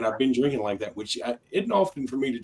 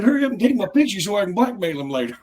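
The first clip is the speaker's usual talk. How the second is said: higher, louder, laughing through it; giddy laughing request; 9 semitones higher, 4 dB louder than usual. Retold or imitated. Host joking about blackmailing the judge, laughing. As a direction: laugh while begging. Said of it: "I said".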